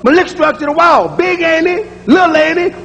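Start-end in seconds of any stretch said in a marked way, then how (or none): 0.0-1.1 Malik structure the wall, the family way; grandma's pronunciation. Retold or imitated. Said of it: "That's the way my grandma".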